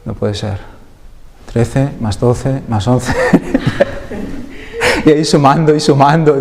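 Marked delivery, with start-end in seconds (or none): 1.5-3.1 laughing. Retold or imitated. Recounting, breaks into laughter. 3.2-5.0 a burst of high laughter. Real, not acted. Laughs at own sleepless sum.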